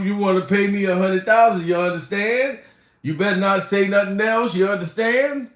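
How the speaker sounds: light imitation of a rapper, tough and taunting; a hint of the rapper taunting Steve. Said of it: "In my rapper voice".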